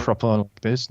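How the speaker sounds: proper posh British; lightly posh British delivery; posh British accent. Shown as a demonstration. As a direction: try a proper upper-class British accent. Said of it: "so is it more posh?".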